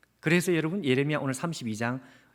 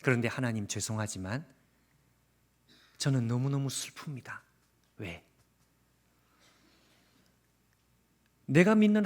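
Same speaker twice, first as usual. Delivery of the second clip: Jeremiah's sad prayer. Acted. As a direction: pray as if your heart won't follow your head, hushed and hurting. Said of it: "이런 기도를 하고 있는 사람이 누군가 하면은요".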